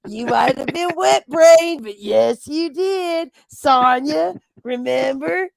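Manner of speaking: mock insistent Rebel. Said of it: "And Rebel was like".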